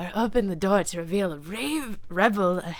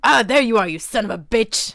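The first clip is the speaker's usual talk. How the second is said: loud furious outburst at him; furious shout; 3 semitones higher, 8 dB louder than usual. Acted. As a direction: hurl the insult loudly. Girl finds Jaden, furious.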